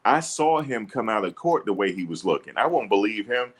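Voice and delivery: usual speaking voice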